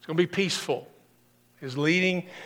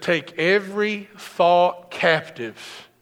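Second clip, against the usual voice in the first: slow, solemn quotation; lightly voiced apostle Paul; Paul quoted; slower than usual. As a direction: weigh every word like scripture. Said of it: "He said".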